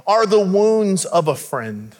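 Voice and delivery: slow, weighty reading of "Faithful"; solemn slow proverb; scripture reading. Acted. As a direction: read the verse slowly, letting it land. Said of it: "Solomon says it like this".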